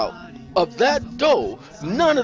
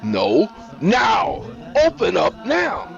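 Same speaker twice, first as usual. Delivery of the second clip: loud, raised shouted order; angry demand; 10 semitones higher, 5 dB louder, much slower than usual. Acted. Henrik demanding Niecy open up at once, angry shout. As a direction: shout through the door, impatient. Man demands door be opened.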